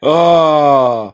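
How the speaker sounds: high, slow, breathy mock plea; hammed-up high plea, drawn out slowly; mock actress voice. Mocking the actress's line.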